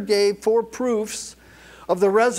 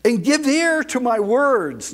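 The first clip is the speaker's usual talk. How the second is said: raised, projected preacher's call; command voice; 2 semitones higher than usual. Acted. Peter addressing the Temple Mount crowd, raised command voice. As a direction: call out to a crowd without a microphone. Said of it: "he has to use what we call in law enforcement a command voice".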